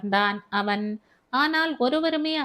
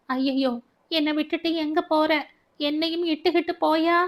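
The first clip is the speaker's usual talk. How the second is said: higher, rushed cry of a woman left behind; wailing plea; 5 semitones higher than usual. Acted. Baby wailing to Arul Das at the police van, higher and rushed. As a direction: wail it out as he is taken away. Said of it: "என்று கதறினாள்".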